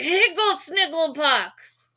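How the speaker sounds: high, loud raging tirade; furious outburst. A narrator's reading. Michael defending David from the reporter, loud furious tirade. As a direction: blast him with made-up curses. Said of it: "that's when Michael exploded".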